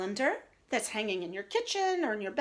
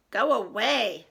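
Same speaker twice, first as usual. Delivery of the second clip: grumpy Toad; 2 semitones lower, 5 dB louder than usual. Acted.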